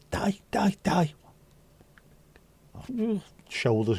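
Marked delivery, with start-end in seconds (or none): 0.1-1.1 high, breathy mock giggle through the words; imitating helpless giggling. Recalling late friend Diane's giggling fit, high breathy mock laugh. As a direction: mimic a friend dying of laughter. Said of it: "she'd start giggling".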